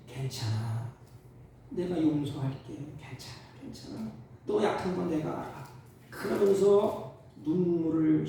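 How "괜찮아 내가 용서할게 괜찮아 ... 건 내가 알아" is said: soft, tender reassurance that drops to a hush; forgiving Lord. Retold or imitated. The Lord forgiving a weeping sinner, soft and tender. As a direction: forgive them gently, close by. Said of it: "그때 주님".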